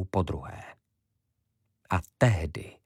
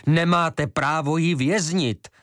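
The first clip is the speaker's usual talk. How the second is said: high, urgent protest; calling out angrily; 8 semitones higher than usual. A narrator's reading. Karadžič protests to Šafar, calling out urgently. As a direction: cry it out.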